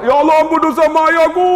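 high, fast, choked plea; high wailing prayer of a repentant old man; tearful old man praying. Retold or imitated. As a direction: beg for your parents' forgiveness.

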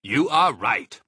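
loud, proud shout; hearty shout. A narrator's reading. Mr Fox praising his son, loud proud shout. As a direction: call it out proudly.

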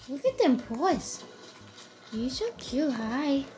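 sing-song gushing over a dog; pet-talk voice. Real, not acted. Owner says good morning to the dog, gushing. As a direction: coo and fuss over a beloved pet.

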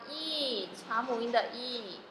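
E held as a long "ee"; long vowel E. Shown as a demonstration. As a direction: draw out the E sound. (长母音E，拉长读)

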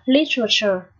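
literature with the weight on LIT; stress on first syllable. Shown as a demonstration. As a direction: lean on the opening LI of literature. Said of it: "Trọng âm ở đầu nhá". (nhấn trọng âm âm đầu của literature)

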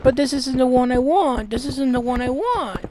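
imitating a whining complainer, drawing out the last word; lightly mocked pleading; mock complaint. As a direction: put on a petulant protest. Mocking her complaint about the cross.

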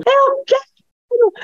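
stretched, high wailed demand; tantrum child. Retold or imitated. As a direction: wail it like a toddler mid-tantrum.

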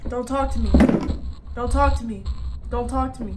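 loud, insistent repeated plea; panicked repeating. Real, not acted. Gamer yelling at the creature in panic. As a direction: keep pleading it loudly over and over.

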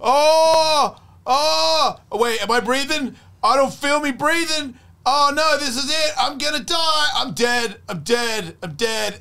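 hammed-up terror of someone who can't feel breathing; mock panic. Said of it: "You just go".

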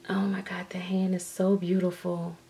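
hushed, breath-only whisper; awed whisper. Real, not acted. Painter admiring a doll's beautiful hand, awed whisper. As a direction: whisper it softly in wonder.

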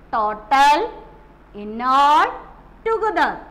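Total, in all, together called out loud; teacher announcing the key words. Shown as a demonstration. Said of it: "Which are the words come in question?".

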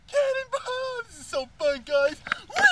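high, loud excited yell; cannonball yell. Real, not acted. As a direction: shout it as you leap in. Jumping, yelling.

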